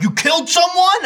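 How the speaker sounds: high-pitched mock shock; shocked outrage. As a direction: imitate scandalised people online, pitch leaping up. Acted outraged public reaction.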